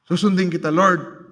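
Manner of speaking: full-voiced, falling, resolute vow; preacher voicing a confident bargain with God; firm declared promise. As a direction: state it firmly like a vow. Hindi yung, wrong prayer attitude.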